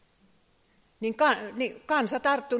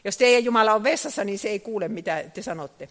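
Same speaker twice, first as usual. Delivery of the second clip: jeering, opening much louder and higher, then settling; mocking taunt; 3 semitones higher, 7 dB louder than usual. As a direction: taunt the priests as Elijah would. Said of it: "Tällä lailla se pilkkaa".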